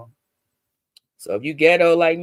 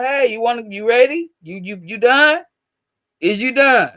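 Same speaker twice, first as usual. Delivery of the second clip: son's impatient voice; 6 semitones higher, 6 dB louder than usual. Retold or imitated. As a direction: play the grown son rushing his mom, stretching each word. Mom voices her son checking on her.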